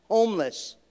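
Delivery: ordinary talk, nothing marked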